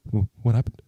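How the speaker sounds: lightly voiced worried figure; confused character. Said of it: "And you just hear".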